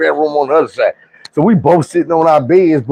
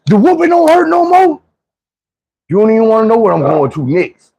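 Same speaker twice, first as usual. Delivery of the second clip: mock furious mama; 13 semitones higher than usual. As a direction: play the fed-up mother threatening the kids. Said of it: "But she like".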